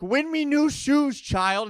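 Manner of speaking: put-on high, slow pleading at a kid player; mock gambler's plea. Bettor yelling at a college kid to win, high pleading. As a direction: beg it like a desperate bettor. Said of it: "I'm like".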